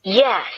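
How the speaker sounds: firm, punched Yes; emphatic yes. A narrator's reading. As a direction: land it with conviction. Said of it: "Gretchen said emphatically".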